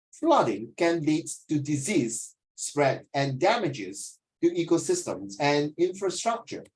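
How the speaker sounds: slow model reading, each word placed; slow, careful reading. Shown as a demonstration. Teacher modelling the sentence slowly for the class. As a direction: read it slowly and deliberately. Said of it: "the term, the term".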